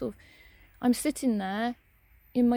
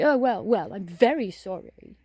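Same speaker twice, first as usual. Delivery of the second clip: mock shout after; 7 dB louder, slower than usual. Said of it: "she shouted after me".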